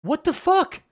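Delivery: sudden high, loud yell; furious outburst. Real, not acted. Streamer failing the same jump, high loud yell. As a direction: explode at the screen. Raging at failed run.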